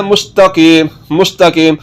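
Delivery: मुस्तकीम with a light, thin t. Shown as a demonstration. Teacher modelling the word for learners, thin ta. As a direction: keep the ता in मुस्तकीम fine, not heavy. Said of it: "ये ता भी बारीक पढ़ा जाता है".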